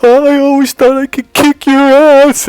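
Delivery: put-on high girlfriend voice, half-crying. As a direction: play her tearful confession high and loud.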